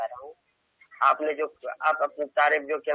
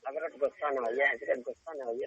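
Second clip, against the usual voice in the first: calming, lovingly; 7 dB quieter than usual. Real, not acted. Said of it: "پیار محبت سے".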